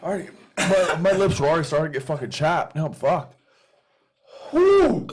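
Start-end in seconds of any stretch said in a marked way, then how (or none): 4.5-5.1 loud, high whoop of pain; excited whoop. Real, not acted. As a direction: whoop through the burn. Reacting to burning spicy food.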